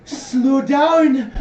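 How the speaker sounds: a dragged, lazy plea to slow down; slow drawn-out call. Retold or imitated. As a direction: stretch "wait, slow down" very slowly. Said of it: "you hear".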